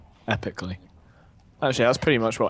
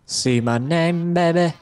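showy boast; 6 semitones higher, 4 dB louder than usual. Acted. Showing off his name tag.

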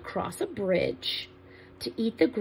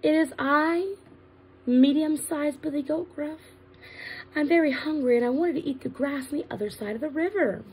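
lightly voiced goat, somewhat higher; medium-sized goat voice; 5 semitones higher than usual. Medium goat answers the troll, modestly raised voice. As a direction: speak up a little in pitch for the middle goat. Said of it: "he answered in his medium-sized voice".

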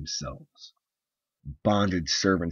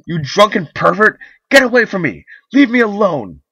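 much higher and louder, building to screams; furious tirade; 9 semitones higher, 13 dB louder than usual. Acted. Wife screaming her drunken husband out of the room, rising fury. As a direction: drive him out in rage.

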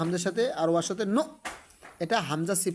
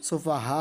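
"সুফাহা" with a very long last vowel; short "সুফা", long sustained "হা"; four-alif elongation; 2 semitones lower, much slower than usual. Shown as a demonstration. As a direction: hold the "হা" of "সুফাহা" on one note. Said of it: "চার দাগ আছে এখানে".

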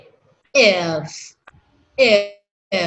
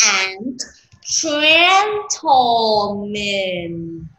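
a slow, drawn-out formal greeting; slow formal speech; much slower than usual. Shown as a demonstration. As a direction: address the room slowly like a speech. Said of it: "formal greeting, slow". (chào trang trọng, chậm rãi)

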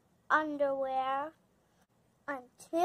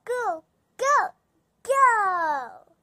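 loud, high urgent go-go-go; urgent cry; 5 semitones higher, 7 dB louder, much slower than usual. Acted. Friends flee the boar, loud and urgent. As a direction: hurry them away in a panic.

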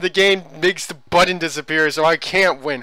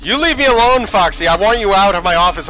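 shouting at the character to leave; yelling at Foxy; 2 semitones higher, 4 dB louder than usual. Real, not acted. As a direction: order the animatronic away.

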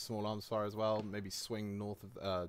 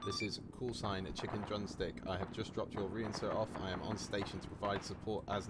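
slower and deliberate for the radio; slow, clear repeat; 3 dB quieter than usual. Real, not acted. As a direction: spell it out again for a bad line. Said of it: "say again".

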